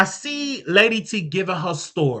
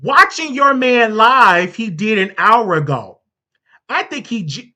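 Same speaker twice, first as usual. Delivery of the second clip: reading mother's text. Retold or imitated. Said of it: "this is what the mother said".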